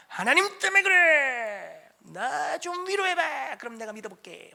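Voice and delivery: slow, high mock whine to God; childish sulking plea. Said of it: "뭐 이렇게".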